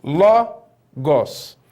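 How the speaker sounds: Logos with stress on the first syllable Lo, drawn out; stress demo. Shown as a demonstration. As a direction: say Logos leaning on Lo. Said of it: "Olha onde está o acento".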